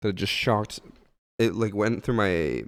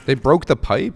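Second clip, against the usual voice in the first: surprised; 8 semitones higher, 8 dB louder than usual. Real, not acted. Startled in-game surprise.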